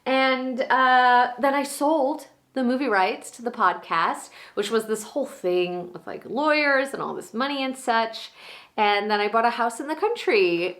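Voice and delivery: gushing, excited and proud, pitch leaping high; Maura, high on life. Acted. Monologue actor as Maura catching up with Danny, high on life. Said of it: "so high on life".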